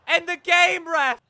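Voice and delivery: high, loud plea at the ref; desperate shout. Real, not acted. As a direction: yell for the final whistle. Demanding the final whistle.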